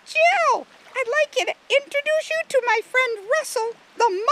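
very high, loud tiny-beetle voice; piercing squeaky character voice. A narrator's reading. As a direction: squeak it out like a little cartoon bug. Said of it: "said in a high, squeaky voice".

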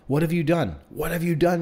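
high, insistent repeated question; screamed repeat. A narrator's reading. Frantic mother repeating her accusation to the boy, contained scream. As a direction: cry it out twice, accusing, without full screaming. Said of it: "she repeated".

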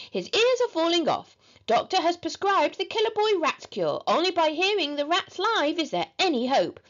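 high, mock-pitiful plea; pleading charity appeal. A narrator's reading. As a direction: beg like a suffering child's appeal. Henry composes pleading ad.

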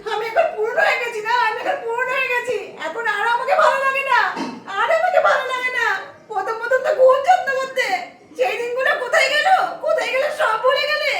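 whiny, half-laughing fake sob; mock wailing. Wife wails to husband that she's old news, sobbing. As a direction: wail your complaint, overplayed.

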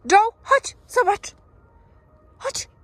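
high, loud call across the woods; calling the dog. Real, not acted. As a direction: call her over excitedly. Calling dog to see stick.

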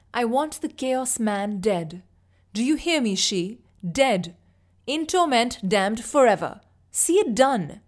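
a king demanding death, rising in rage; furious royal order. Acted. Mad king orders a killing.

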